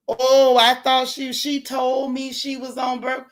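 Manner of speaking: mock self-pitying whimper; mock crying man. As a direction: whine it like a man caught out. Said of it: "then men wanna cry".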